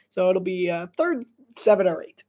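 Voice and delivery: lively sportscaster call of the play; play-by-play voice building to an excited "boom"; play-by-play commentary. Acted. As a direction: call the run like a broadcaster.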